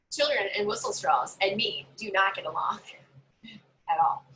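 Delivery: a voiceless confiding whisper; whispered aside. Real, not acted. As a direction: hush it like a guilty confession. Confiding dislike of whistles.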